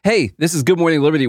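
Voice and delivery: quick upbeat radio host; punchy radio host. Shown as a demonstration. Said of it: "my fake radio voice".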